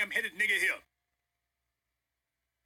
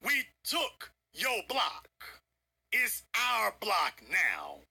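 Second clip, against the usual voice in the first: slow gloating taunt; slower than usual. Acted.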